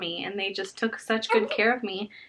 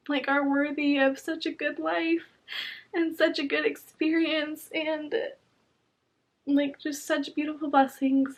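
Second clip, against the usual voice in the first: higher, tearful voice close to crying; 4 semitones higher than usual. Real, not acted. New mother thanking her midwives and family, tearful and higher. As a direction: speak through welling tears, pitch lifted. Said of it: "I'm emotional".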